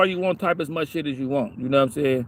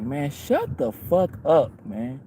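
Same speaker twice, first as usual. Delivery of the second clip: slow retold brush-off; 2 semitones lower, 4 dB quieter, much slower than usual. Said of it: "We were just looking like".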